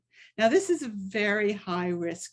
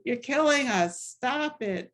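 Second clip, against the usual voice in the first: mild mock yell; 3 semitones higher, slower than usual. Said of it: "he started screaming at Cardinal O'Connor".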